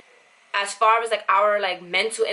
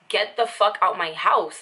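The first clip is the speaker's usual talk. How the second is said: slow firm order. Retold or imitated. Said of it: "I didn't stutter".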